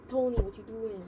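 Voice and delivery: put-on a touch of old musical gangster accent, opening word punched; mock gangster accent from Guys and Dolls. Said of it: "I sounded like I was, like, a guy from, like, Guys of Dolls".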